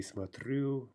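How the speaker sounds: смотрю with the beat on "рю"; end stress on смотрю. Shown as a demonstration. Teacher showing the pattern, смотрю stressed on ending. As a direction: stress the last syllable, смот-РЮ. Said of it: "shifting stress".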